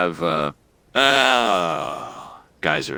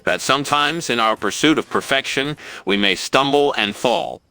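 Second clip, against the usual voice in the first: formal speech. Acted. Farewell speech to the town.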